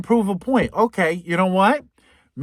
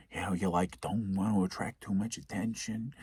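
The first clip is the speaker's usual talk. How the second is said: much softer, lower hush; hushed, tense; 9 semitones lower, 12 dB quieter than usual. Real, not acted. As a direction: keep it low like sneaking past. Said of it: "Very tense, very quiet".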